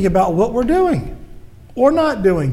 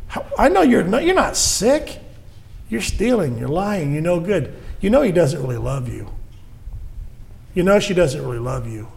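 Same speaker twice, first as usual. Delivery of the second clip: devil accusing; 3 dB quieter than usual. Acted. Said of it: "He says the same thing to us".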